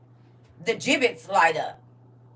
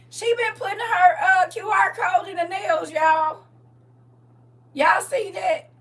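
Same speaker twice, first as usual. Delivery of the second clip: excited; 8 semitones higher than usual. Real, not acted. Excited shout about nail QR codes.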